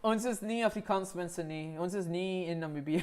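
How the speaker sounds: playful Afrikaans, spoken lightly. Pretend. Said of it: "My Afrikaans is so cooked".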